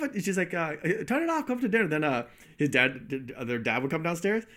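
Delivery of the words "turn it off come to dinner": put-on high mom voice with a Chinese accent; imitating a mom with a Chinese accent. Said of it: "she had a thick Chinese accent".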